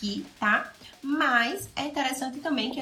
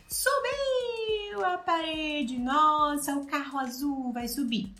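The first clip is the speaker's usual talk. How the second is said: narrando a brincadeira; 5 semitones higher, slower than usual. Shown as a demonstration. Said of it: "uma coisa que você pode fazer é narrar a brincadeira".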